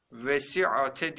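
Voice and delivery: "Vesiate" with an added final E; wrong reading. Shown as a demonstration. Teacher quizzes students with a wrong reading. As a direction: add E after the T in "Vesiate". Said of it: "diye okuduk mu?".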